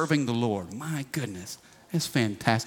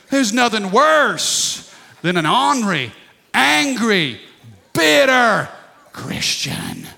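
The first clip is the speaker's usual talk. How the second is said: louder and higher, word by word; building emphasis; 4 semitones higher, 4 dB louder, slower than usual. Acted. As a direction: stack each word, rising to "bitter". Building list of bad traits.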